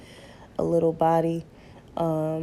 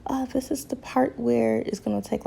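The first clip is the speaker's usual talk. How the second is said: whisper; 5 semitones higher than usual. Real, not acted. Whispered aside.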